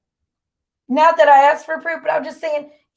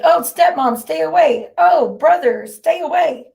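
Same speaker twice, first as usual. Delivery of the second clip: lightly raised, sarcastic loyal-friend voice; mock the loyal friend, a little higher; mocking quote; 4 semitones higher than usual. Streamer mocking what she's expected to say for Jen, lightly raised. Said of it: "supposed to have Jen's back and be like".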